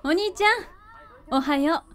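slow, drowsy morning greeting; just-woken sister mumbling to her brother; sleepy. Acted. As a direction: stretch the words out as if half asleep. Little sister just waking up.

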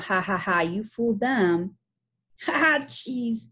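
lightly acted laughing relief; amused laughter. Boys laughing over fooling their friends, amused. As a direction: laugh along between the words.

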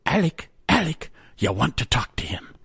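put-on a hushed Irish girl's voice in his head; Irish lass. A narrator's reading. Inner voice urging Alec, hushed Irish whisper. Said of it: "mine happens to be an Irish lass".

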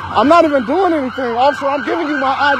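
pleading loudly while grabbed; heated shouting. Real, not acted. Driver being grabbed by officer.

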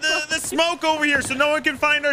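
rally the crew like a captain; pirate captain rallying. Acted.

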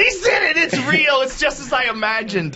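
squeaky, starstruck and high; high gushing fan voice. Pretend. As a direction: gush like a giddy fan.

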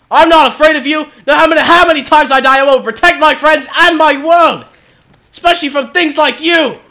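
bold mock battle cry; heroic speech. Hammy heroic speech again.

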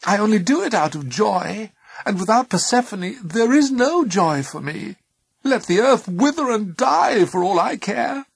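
high, loud anguished outburst; impassioned threat. A narrator's reading. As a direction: argue fiercely as a bereft mother. Angry mother threatening Zeus.

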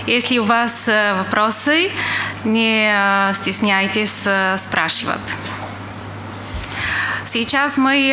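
Russian with an English accent; non-native Russian, English accent. Real, not acted. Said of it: "я не очень хорошо говорю по-русски".

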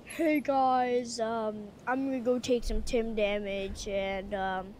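lightly voiced streamer, low and soft; a hint of TimTheTatman's streamer intro; Tim the Tatman impression. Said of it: "give me a Tim the Tatman impression".

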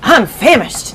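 a hint of an old grasshopper, famished; lightly voiced old grasshopper. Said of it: "the old green grasshopper said".

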